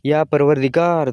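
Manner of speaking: loud prayerful cry; loud cry to God. Acted. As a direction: call out to God in despair. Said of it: "મોટેથી બૂમ પાડી".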